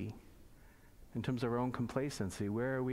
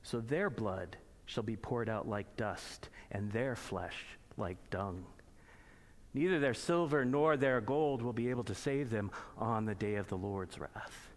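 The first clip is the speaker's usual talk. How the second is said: scripture reading; 2 semitones lower than usual. Acted. Pastor reading the prophecy of wrath aloud, solemn. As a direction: proclaim the day of wrath steadily.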